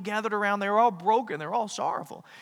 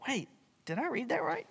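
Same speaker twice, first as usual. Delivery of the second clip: higher, playful double-take; mock surprise; 8 semitones higher, 4 dB quieter than usual. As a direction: pretend you just caught a mistake.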